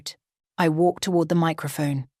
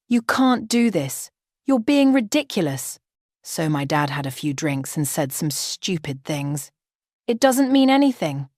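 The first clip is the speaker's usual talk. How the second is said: angry pleading. Acted. Groom pleads angrily.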